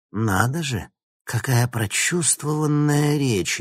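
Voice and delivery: slow, high, mocking drawl; sarcastic. A narrator's reading. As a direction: sneer at his heartfelt speech. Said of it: "язвительно сказала Алина".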